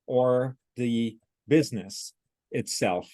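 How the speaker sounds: slow, word-by-word robotic reading. Retold or imitated. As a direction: read each word separately, like a machine. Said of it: "like a robot".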